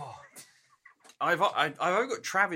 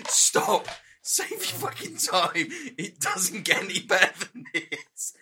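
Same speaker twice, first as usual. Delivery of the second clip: mock warning; 4 semitones higher, 4 dB louder, slower than usual.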